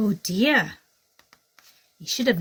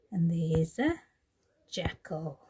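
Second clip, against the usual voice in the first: breathy, much softer reveal; hushed whisper; 3 semitones lower, 5 dB quieter, slower than usual. Acted. Teacher showing children the hidden jackal, whispered.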